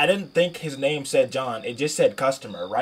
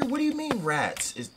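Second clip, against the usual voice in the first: high-pitched panic; 12 semitones higher, slower than usual. Real, not acted. Panicked about rats on first day.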